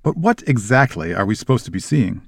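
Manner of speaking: mildly sneering challenge. Acted. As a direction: ask it with a touch of disdain. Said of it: "said Malfoy in a sneering voice".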